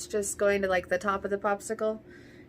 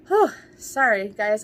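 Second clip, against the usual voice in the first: puffing out the words, winded; short of breath; 7 dB louder than usual. Real, not acted. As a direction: catch your breath between words. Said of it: "like, so short of breath".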